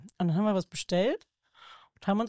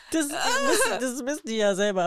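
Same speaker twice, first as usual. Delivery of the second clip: unter Lachen, fast tränend; lachend; 8 semitones higher than usual. Real, not acted. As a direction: losprusten mitten im Satz. Lacht beim Erzählen. (vor Lachen kaum sprechend)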